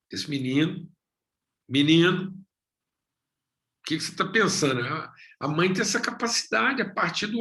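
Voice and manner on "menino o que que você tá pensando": a mother's knowing, coaxing voice, slowed; slow, probing mother calling her son; mother questioning son. Acted. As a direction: lean in like a mother reading her boy. Voicing mother reading her son.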